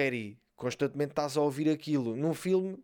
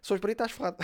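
put-on kid's Brazilian slang; 6 semitones higher, faster than usual. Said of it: "Ouvir um puto".

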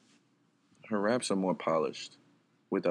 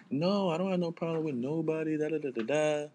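higher-pitched mock denial; imitating rappers' denials; 6 semitones higher than usual. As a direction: imitate rappers brushing off the question. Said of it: "you always hear them like".

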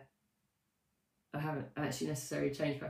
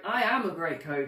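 convinced; 5 dB louder than usual. Shown as a demonstration. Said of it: "I almost did it myself".

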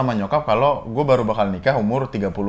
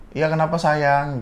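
higher, drawn-out tender reply; lightly voiced doting mother; affectionate mother; 4 semitones higher, slower than usual. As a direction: imitate a mum answering sweetly, slowly. Voicing mother's affectionate text reply.

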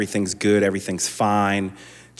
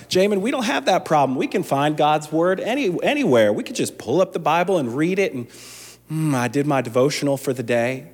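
higher, fast, self-satisfied churchgoer voice; smug churchgoer; 6 semitones higher than usual. Retold or imitated. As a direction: play the complacent believer brushing it off.

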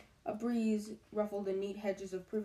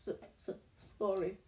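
sobbing apology; 4 dB quieter, faster than usual. Acted. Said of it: "sobbed Hagrid".

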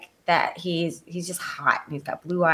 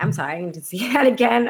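excited; 2 semitones higher, much faster than usual. Retold or imitated. Retelling her excited reaction.

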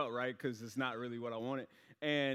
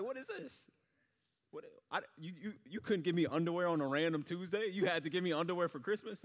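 mock kid complaint; 2 semitones higher than usual. Kid complaining about Christmas underwear.

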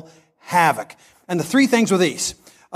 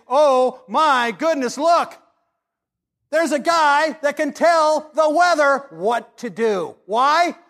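awed; 6 semitones higher, slower than usual. Acted. Preacher marvels at Jesus' power.

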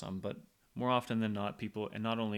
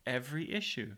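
pen in mouth; 3 semitones higher than usual. Real, not acted. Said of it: "talking like this".

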